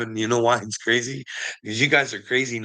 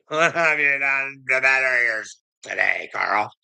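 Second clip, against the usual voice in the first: slow, lofty mock wise-man voice; mock mentor voice; 2 semitones higher, slower than usual. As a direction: preach it like a smug old guru. Mocking quote of a mentor figure.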